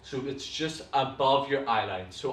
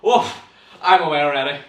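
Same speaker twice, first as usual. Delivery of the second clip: breathless exclaim; 10 dB louder, faster than usual. Real, not acted. Tripped up by tongue twister.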